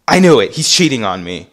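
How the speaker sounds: loud mock outburst; indignant accusation. Mom declares her boyfriend is cheating, indignant. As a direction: blurt it out as a convinced accuser. Mom's accusation retold after hanging up.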